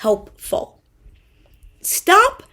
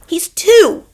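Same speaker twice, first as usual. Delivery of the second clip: whispered emphasis on her son's age; whispered aside; 6 semitones higher, 4 dB louder than usual. Real, not acted. Aside about her son.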